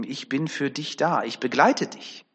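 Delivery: tender assurance. Retold or imitated. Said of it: "das dürfen wir so für uns mitnehmen".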